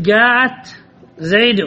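slow demo, ending زيد on a short -u; diptote nominative ending. Shown as a demonstration. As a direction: say زيد as "zaydu", no n sound. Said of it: "تمنع من الصرف، تقول".

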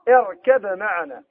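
اركب معنا recited slowly with the ba kept clear before the mim; slow recitation without merging; Warsh reading. Shown as a demonstration. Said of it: "كيف يقرأ؟".

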